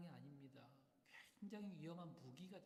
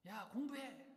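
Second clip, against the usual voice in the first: imitated parent yelling; 8 semitones higher, 8 dB louder, slower than usual. Parent ordering child to study.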